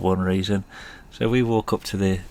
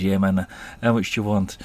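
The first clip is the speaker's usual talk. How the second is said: put-on Jamaican accent. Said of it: "the worst Jamaican accent you're ever gonna hear".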